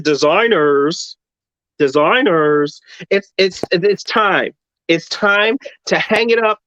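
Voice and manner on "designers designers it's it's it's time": slow, low imitation of Tim Gunn's announcement; a light Tim Gunn dramatic pause; Tim Gunn impression. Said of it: "Tim Gunn has come into the room and said".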